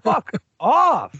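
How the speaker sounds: slow, high "fuck off" like a fed-up mother; mock protective mom. Pretending to be the mom shutting the kids out, slow and high. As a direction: drag out "off" like a mother done with it. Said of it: "if something like that ever happened".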